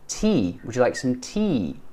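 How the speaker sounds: "tea" with a long falling EE; teacher's own tea. Shown as a demonstration. Teacher modelling own accent, "tea" with a clear falling EE. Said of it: "I'm just teaching you my accent".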